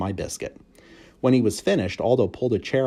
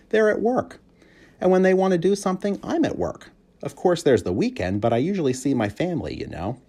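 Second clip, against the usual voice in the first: cheerful janitor; 6 semitones higher, 3 dB louder than usual. A narrator's reading. Aldo's voice.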